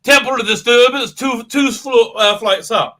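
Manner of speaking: loud, slow smug mock Doctor. Lightly mocking the Doctor's smug line. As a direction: draw it out smugly. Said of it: "smugly at the Sonic Screw and says".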